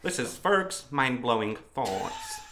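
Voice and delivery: measured robot voice, slowing down; Stephen Hawking. Acted. Introducing his own thoughts to a mate, robot voice. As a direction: recite it like a speech synthesiser. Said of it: "It's just like a weedy robot voice".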